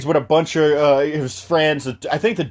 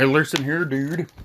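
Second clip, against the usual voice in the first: mysterious dude. Retold or imitated. Mysterious drinker answers the guy, understated cryptic voice. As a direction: keep it subdued and secretive. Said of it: "He's like this super mysterious dude".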